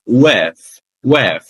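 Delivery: "With" ending in a soft voiceless TH, teeth on lip; soft TH sound. Shown as a demonstration. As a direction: end "With" on a breathy TH. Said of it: "dental soundless". ("With" com o som do TH sem voz)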